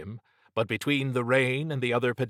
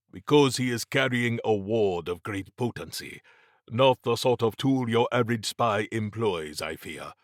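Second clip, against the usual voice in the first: measured, formal character voice; lightly voiced Mabati, concerned. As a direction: lightly play a grave adviser explaining.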